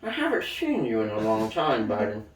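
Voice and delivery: a cold villain savouring the name; menacing Putin. Pretend. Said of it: "So, Biden".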